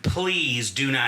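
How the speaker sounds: slow, stretched plea; drawn-out plea. Retold or imitated. Son begging his mother on the phone, drawn-out plea. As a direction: lean on "Please", drawing it out.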